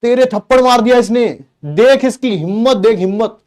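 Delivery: put-on older brother goads his brother to hit back, teasing; egging on. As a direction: stir up a fight between siblings. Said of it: "तो मैं कर रहा था".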